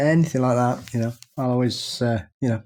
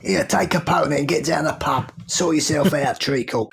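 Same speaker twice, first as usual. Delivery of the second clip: put-on London accent. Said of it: "do my London accent".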